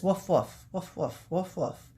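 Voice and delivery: lightly voiced dog woofs; spoken cartoon dog bark. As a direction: bark it in short pairs of woofs. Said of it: "Hot Dog says".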